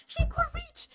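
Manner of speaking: disbelieving outrage; outraged exclamation. Real, not acted. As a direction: shriek it in disbelief. Outraged retelling, repeated exclamation.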